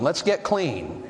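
"Let's get clean" drawn out slowly; slow and deliberate. Shown as a demonstration. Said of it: "I think we could say it like that".

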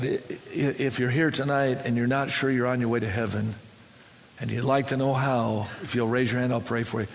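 low, earnest altar call. Retold or imitated. Preacher inviting five men to be saved, low and serious. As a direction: drop low and make the offer sincerely. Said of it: "I got a little more serious".

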